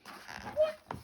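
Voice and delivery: second what leaps very high; confused potato. Acted. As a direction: double take, pitch shooting up. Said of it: "He's like".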